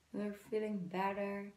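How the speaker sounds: normal talking voice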